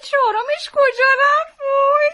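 rising comic wail; hammed-up crying. Wife asks doctor where husband's fourth part went, mock crying. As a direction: cry it out theatrically, ending high. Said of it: "گریه نکن".

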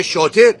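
شاطر said slowly with a clear final R; corrective pronunciation. Shown as a demonstration. Scolding a boy to speak properly, شاطر enunciated with its R. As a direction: stress the proper ending of شاطر, ending in -er. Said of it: "تو باید بگی شاطر".

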